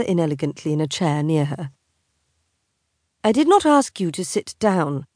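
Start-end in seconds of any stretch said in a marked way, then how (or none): 3.2-5.1 through clenched teeth. Acted. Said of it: "she forced through her clenched teeth".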